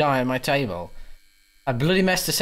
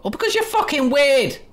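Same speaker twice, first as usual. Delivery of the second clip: loud exasperated yell; 12 semitones higher, 5 dB louder than usual. Acted. Player yells at creepy stranger.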